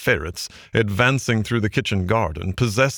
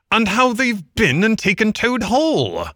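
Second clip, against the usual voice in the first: high, excited rat cry; agitated outburst; 13 semitones higher, 4 dB louder than usual. A narrator's reading. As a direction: burst out high with the shocking news. Excited rat breaks shocking news.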